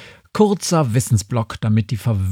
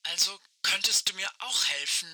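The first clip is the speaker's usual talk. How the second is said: crackling radio voice, much softer; like a far-off voice over a walkie-talkie; old rotary phone; 5 semitones higher, 11 dB quieter, faster than usual. Acted. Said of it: "Fragt Aische".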